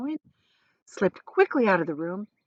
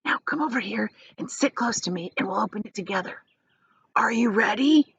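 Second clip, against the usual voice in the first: put-on hushed old man; 3 semitones higher than usual. Grandpa whispering to Charlie.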